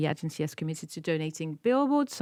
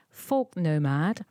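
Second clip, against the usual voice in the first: slow clear name; slower than usual. Shown as a demonstration. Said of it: "Folk nomad is like, it's her".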